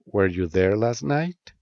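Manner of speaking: rising question intonation ending on "night"; rising question tune. Shown as a demonstration. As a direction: pitch rises on "night" at the end. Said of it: "use a rising intonation at the end".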